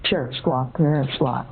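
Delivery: string of spoken bird calls in short bursts; mock parrot chatter. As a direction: squawk and chirp the words like a pretend parakeet. Caller spouts bird noises at agent.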